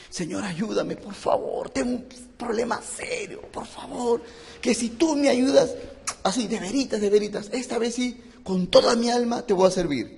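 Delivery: soft, high, wheedling plea with little laughs; hammed-up bargaining with God, half laughing; a churchgoer mockingly begging God for help; mock pleading prayer.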